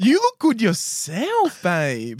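put-on gay voice. Man returning a compliment at a bar, put-on gay voice. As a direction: draw it out in hammed-up camp. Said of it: "Can I, can I do a gay voice or no?".

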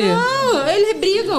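high and loud, insisting; emphatic. Real, not acted. Mom insisting to friend the kids fight. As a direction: push back hard, half laughing.

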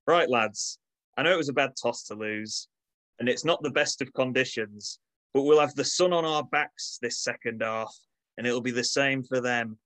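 put-on light Manchester accent, team-talk tone; rallying the lads in Manchester accent. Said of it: "in my best Manchester accent".

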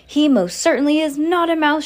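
high, loud indignant shout; outraged father raising his voice. A narrator's reading. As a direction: shout down an absurd claim. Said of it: "shouted Mister Jenkins".

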